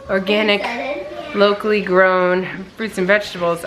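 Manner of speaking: lightly affected, measured enunciation; put-on voice. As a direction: say it with a slight mock-fancy emphasis. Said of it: "why I use that voice".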